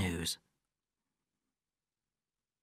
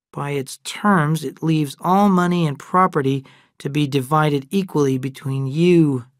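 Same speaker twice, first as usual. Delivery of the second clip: formal letter voice, louder and measured; letter read aloud; 3 dB louder than usual. Acted. Adam reading the attorneys' letter aloud, formal.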